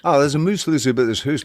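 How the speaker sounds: imitating the accent quickly, Scottish-tinged; Scottish-sounding. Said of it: "that sounds Scottish when you do that".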